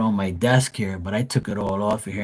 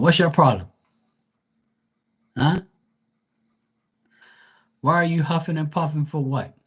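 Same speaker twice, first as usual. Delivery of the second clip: doting pet talk; 5 semitones higher than usual. Real, not acted. Streamer fussing over her panting dog, high doting baby talk.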